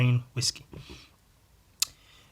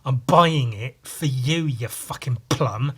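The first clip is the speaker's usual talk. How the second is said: slow, louder, deliberately spelling it out; telling Sam the gift is his, slow and pointed; slow deadpan emphasis; 3 dB louder, slower than usual. Retold or imitated. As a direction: drag it out as if to a dimwit. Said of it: "I looked at him and went".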